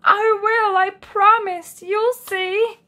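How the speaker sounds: high, loud earnest promise; a badger swearing he will change; eager Badger. A narrator's reading. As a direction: promise it keenly. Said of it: "a little embarrassed".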